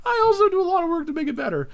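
squeaky high-pitched repeat; silly high voice. Pretend. Repeating own line in silly voice.

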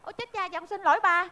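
suddenly soft, deflated apology; sheepish apology. Acted. Wife realises she scolded the wrong man, hushed apology. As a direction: drop your volume as the mistake dawns.

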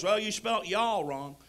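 slow, lightly voiced Southern goober; a drawn-out hint of a dim Texan; goober driver. Driver correcting a jacket's spelling, slow mild goober drawl. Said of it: "Goober looks at me and goes".

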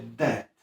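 "debt" jako "det", bez b; nieme b. Shown as a demonstration. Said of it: "Nie wypowiadamy b". ("debt" bez b, jak "det")

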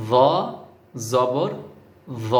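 য with the tongue touching the teeth, জবর without it; touch the teeth only for য; careful pronunciation. Shown as a demonstration. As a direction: lesson demo of য জবর য. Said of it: "য বলার সময় জিহ্বা লাগবে".

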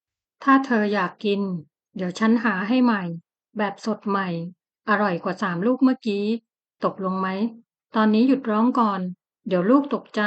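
calm her down gently like a worried husband; gentle husband comforting his crying wife; soothing. Acted. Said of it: "เสียงปลอบในตอนท้าย".

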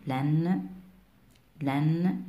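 "لن" as "lan" with a held n; short a, then ring the n in "لن"; fatha tanween. Shown as a demonstration. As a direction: say "لن" as "lann". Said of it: "منون بالفتح".

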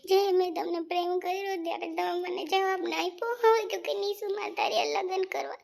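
tearful reproach, pitch lifting. Acted. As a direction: reproach him through tears. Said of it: "Nishu, તું રડમાં".

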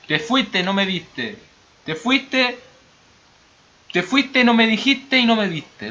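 high, loud mock Argentine lament; Argentine accent. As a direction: wail it in a hammed-up Argentine accent. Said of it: "Me encanta el acento argentino".

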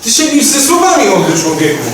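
high, loud scolding; indignant outburst. Acted. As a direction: burst out in an indignant rebuke. Elder rebukes in acted quarrel. (podniesiony, oburzony głos)

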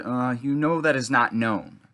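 mildly hesitant, drawn-out retelling; slow, slightly reluctant quote. Retold or imitated. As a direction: imitate her hesitation, slowly. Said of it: "she sounded hesitant".

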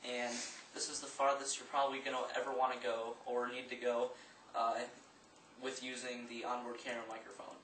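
distant, thin voice across the room; far from mic. Real, not acted. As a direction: speak from twenty feet off the mic. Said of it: "now I'm twenty feet away".

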